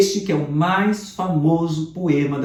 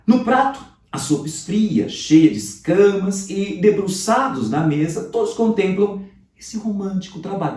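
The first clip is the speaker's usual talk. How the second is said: reading the poem lines with feeling, slightly higher; 4 semitones higher than usual. Acted. Teacher reading a poem to students, expressive. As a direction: savour each line of the poem for the class.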